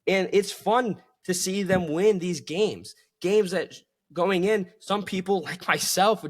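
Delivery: mildly excited, pitch lifted; real excitement. Real, not acted. Host telling fans it's fun watching the team win, excited. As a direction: let some real excitement lift the voice. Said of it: "excitement in my voice".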